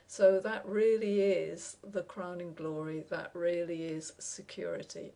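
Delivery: mock-approving, stressing REALLY both times; dry sarcasm, easing off on the second phrase; sarcastic. Real, not acted. Critic mocking the record system's security, sarcastic. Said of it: "I'm being a bit sarcastic here".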